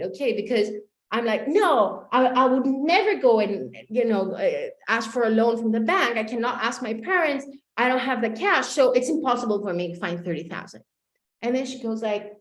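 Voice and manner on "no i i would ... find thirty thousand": louder, irritated protest; annoyed. Retold or imitated. Client annoyed at the coach's question, louder and irritated. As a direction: push back, clearly fed up. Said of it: "Now I'm really annoyed".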